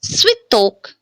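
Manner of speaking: "switok" with short "i" before stressed "tok"; reduced YE pronunciation. Shown as a demonstration. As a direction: reduce the first vowel of "switok" to a light "i". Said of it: "ye is unstressed".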